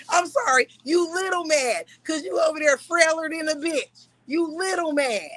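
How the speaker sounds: mocking. Real, not acted. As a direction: needle him with fake pity. Mocking the other person.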